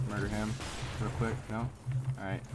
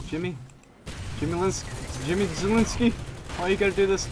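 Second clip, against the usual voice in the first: mock scolding; 7 semitones higher than usual. Real, not acted. Full-naming teammate Jimmy.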